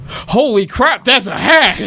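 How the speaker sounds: high startled yell; shocked. Acted. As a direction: blurt it out in shock. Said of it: "He's just like".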